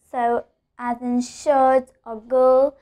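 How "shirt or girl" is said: put-on "shirt", "girl" slowly, with one long er sound. Shown as a demonstration. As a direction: draw out "shirt" and "girl" on the er vowel. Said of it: "I'm pronouncing it as er".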